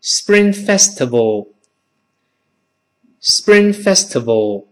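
Spring Festival slowly, P voiced like B; model reading. Shown as a demonstration. Teacher has class read the holiday, slow model pronunciation. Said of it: "读一遍春节".

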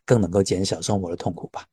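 Hong Kong-accented Mandarin; cantonese accent in mandarin. Real, not acted. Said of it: "李老师的那个梦想之一就是用港普".

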